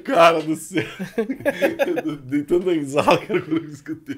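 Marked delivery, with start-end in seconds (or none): 0.9-2.0 high laugh; real laughter. Real, not acted. Host recalls hearing the story, laughing. 2.0-4.2 talking through laughter; real laughing. Real, not acted. Host tells guest of first hearing it, laughing.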